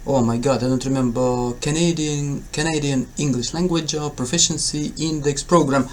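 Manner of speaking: ordinary talk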